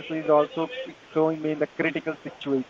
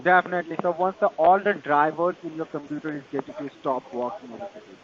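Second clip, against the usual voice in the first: Indian call center. Real, not acted. Tech support scam call agent.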